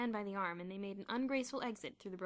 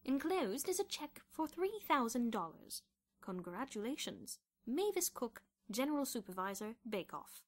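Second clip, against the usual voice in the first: letter read aloud; 4 semitones higher than usual. A narrator's reading. Bruno reading the bake-off prize letter, measured letter voice.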